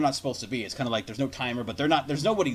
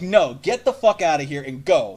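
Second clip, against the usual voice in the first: slow, firm command a little louder; retold stern command; 6 dB louder than usual. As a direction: push him out the door with slow, firm words. Stepdad ordering him to go.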